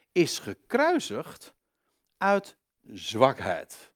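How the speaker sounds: ordinary talk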